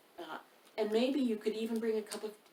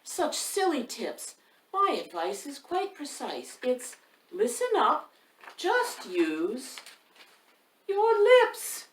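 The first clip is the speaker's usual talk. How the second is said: queen; 5 semitones higher, 4 dB louder, slower than usual. Acted. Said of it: "exclaimed the queen".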